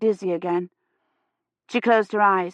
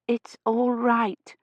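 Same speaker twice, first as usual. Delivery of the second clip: feverish slur; 4 semitones higher, much slower than usual. A narrator's reading. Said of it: "she could hardly understand her own words".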